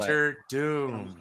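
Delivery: DOCTOR DOOM said very slowly, word by word; drawn-out DOCTOR DOOM. Real, not acted. Panelist repeats his casting guess, DOCTOR DOOM slow and drawn out.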